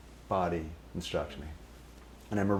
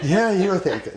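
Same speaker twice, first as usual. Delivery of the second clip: loud confirmation; 12 semitones higher, 8 dB louder than usual. Retold or imitated. Confirming the teasing.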